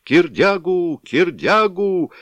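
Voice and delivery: loud, very high drawn-out chant; roaring crowd chant; loudest shouting. A narrator's reading. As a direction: chant it over everyone. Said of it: "раздавалось сильнее прочих".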